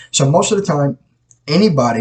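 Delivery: talking around a sip of coffee; words cut off by a sip; while sipping coffee. Real, not acted. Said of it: "I'm drinking coffee".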